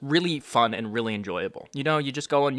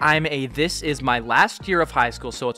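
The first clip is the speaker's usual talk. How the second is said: deliberate read-out of a message; slow reading; 4 dB louder than usual. Acted. YouTuber reading a fan's prom invite, slow and careful. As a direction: read carefully, stumbling over odd grammar. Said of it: "I'm gonna read this slowly again".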